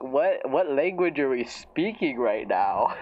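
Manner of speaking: incredulous question through a laugh; amused disbelief, laughing as you ask; baffled, laughing. Retold or imitated. Reacting to a redundant abbreviation, baffled and laughing.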